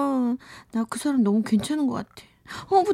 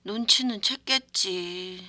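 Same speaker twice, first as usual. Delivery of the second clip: put-on drunk voice. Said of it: "술에 취한 목소리로".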